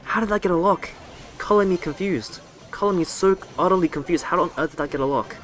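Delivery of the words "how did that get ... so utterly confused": mock bafflement. Real, not acted. Baffled by opponent's lock.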